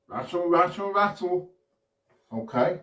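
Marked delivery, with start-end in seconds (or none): 0.1-1.5 higher, quick rattling chant; snake impression. Shown as a demonstration. Showman repeating the snake impression with everyone, high rattling chant. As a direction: lift the pitch and rattle it off evenly. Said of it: "do an impression of a snake".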